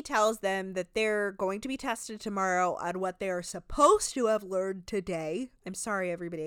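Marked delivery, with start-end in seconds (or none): 2.8-5.5 yawning mid-sentence. Real, not acted. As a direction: talk through a yawn. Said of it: "I keep yawning".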